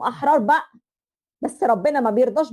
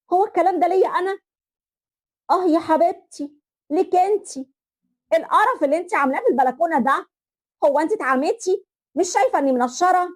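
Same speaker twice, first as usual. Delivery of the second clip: raised, higher-pitched scolding from the balcony; angry yelling; 4 semitones higher than usual. Acted. Balcony quarrel over laundry. (صراخ غاضب من البلكونة على مرات أخوها)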